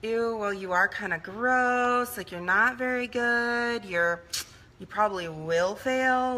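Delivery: slow, sneering put-down to a friend; mock harsh critic. Speaker mocks how we'd never talk to a friend, slow sneering. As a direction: mimic a mean voice telling someone they'll fail. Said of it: "Would you be like".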